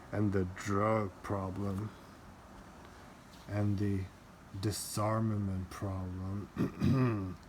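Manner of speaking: low, cold psychopathic menace; cold evil voice. Pretend. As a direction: read it like a calm psychopath. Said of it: "I gotta make a cold psychopathic kind of evil voice".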